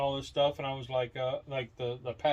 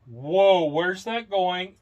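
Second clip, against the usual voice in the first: a loud startled whoa then a slow worried question; hammed-up startled exclamation; mock alarm; 4 semitones higher, 7 dB louder, much slower than usual. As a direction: gasp it out like a shocked guy. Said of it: "you go".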